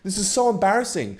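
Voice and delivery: hammed-up embarrassed girl shooing him off; high mock girl voice.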